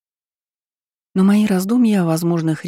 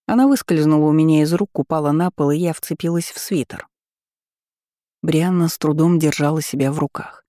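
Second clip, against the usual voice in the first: usual speaking voice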